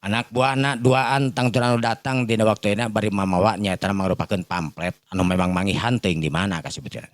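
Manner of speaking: plain reading voice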